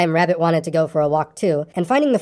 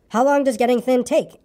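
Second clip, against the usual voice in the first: higher-pitched, mildly anxious question; a touch of worry, pitched up; 6 semitones higher than usual. A narrator's reading. Pooh asking Christopher Robin, mildly anxious. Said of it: "asked Pooh anxiously".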